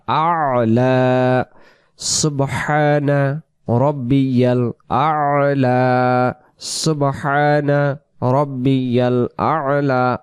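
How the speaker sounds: slow সুবহানা রব্বিয়াল আলা with long vowels; drawn-out prayer phrase with throaty আলা; model recitation. Shown as a demonstration. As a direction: recite measuredly, voicing the ayn in আলা. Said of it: "বলতে হবে আলা".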